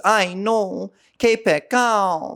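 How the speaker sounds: high, drawn-out mock local slang; imitating Medellín women. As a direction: parrot their stock phrases in a high voice. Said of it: "they tend to talk in, like, the same".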